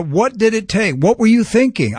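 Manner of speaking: high-pitched, incredulous questioning; mock scolding, pitched well up; exasperated disbelief. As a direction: act out an exasperated God demanding an answer. God exasperated at missed warnings.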